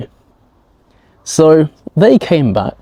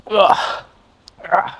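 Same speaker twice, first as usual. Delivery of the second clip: two short soft groans of pain while limping; imitated pained groan; 7 semitones higher, 5 dB quieter than usual. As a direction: groan softly with each step. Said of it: "like that".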